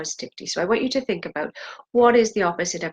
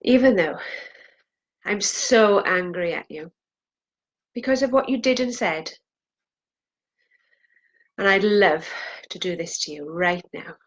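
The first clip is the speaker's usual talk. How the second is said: acted anger. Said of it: "I wanna hear in your voice".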